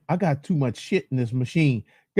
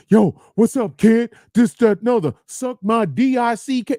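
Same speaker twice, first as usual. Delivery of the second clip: Bronx chick voice; 4 semitones higher than usual. Retold or imitated. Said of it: "them Bronx chicks".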